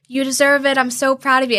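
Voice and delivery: proud mom. Retold or imitated. Mom's proud reaction, retold.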